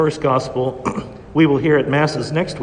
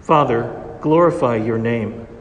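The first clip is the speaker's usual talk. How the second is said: Gospel reading. Acted. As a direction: proclaim it from the ambo. Proclaims the Gospel at Mass.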